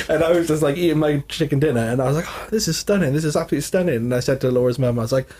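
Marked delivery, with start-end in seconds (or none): 2.3-4.0 retold delight.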